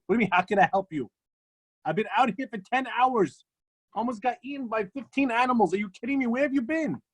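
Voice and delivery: rising, fast indignant complaint; exasperated retelling. Retold or imitated. The freezing visitor confronting Reb Zusha at dawn, exasperated. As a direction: let the frustration boil over.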